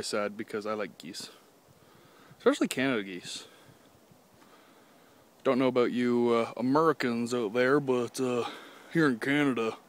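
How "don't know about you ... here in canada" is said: light mock American accent; a faint put-on American twang for the Americans. Addressing American viewers in a light American accent. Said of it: "decided to take an American accent".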